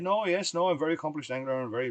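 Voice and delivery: playful imitation of a French accent. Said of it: "in his French accent".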